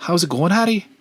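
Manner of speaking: disarming, very high, put-on Scottish accent. Retelling a movie character's lines: imitating a Scottish accent. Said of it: "Scottish accent that's very disarming".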